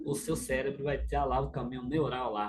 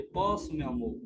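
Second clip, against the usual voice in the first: gentle reply. Shown as a demonstration. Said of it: "Respira e responde".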